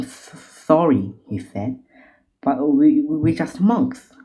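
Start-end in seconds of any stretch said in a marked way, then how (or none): 0.0-1.1 nervous, higher stutter on the first sound; shaking with fear. A narrator's reading. Monk apologising to robbers, shaking. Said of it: "He is shaking". 2.4-4.1 higher, louder stammering plea; shaking with fear. A narrator's reading. Monk pleading with robbers, shaking. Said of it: "He is shaking".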